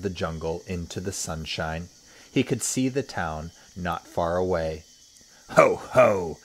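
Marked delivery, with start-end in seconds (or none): 5.5-6.4 big high villainous "ho, ho"; gloating laugh. Acted. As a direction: laugh out loud like a greedy crocodile. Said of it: "he said, talking aloud to himself".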